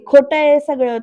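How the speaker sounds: loud, mildly acted protest; imitated outcry; retold shout. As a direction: raise your voice to deny it. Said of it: "आनंदी ओरडते".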